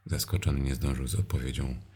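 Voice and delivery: plain reading voice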